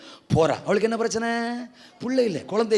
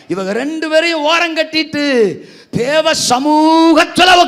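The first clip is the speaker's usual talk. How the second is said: loud, slow, high proclamation; preaching climax; 5 semitones higher, 11 dB louder, slower than usual. Acted. Pastor proclaims Samuel's birth to the church, loud slow climax. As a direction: proclaim the miracle slowly and loud.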